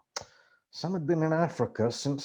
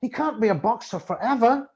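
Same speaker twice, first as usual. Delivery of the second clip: pleading; 12 semitones higher, 4 dB louder than usual. Acted. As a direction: beg him to believe you. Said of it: "I pleaded".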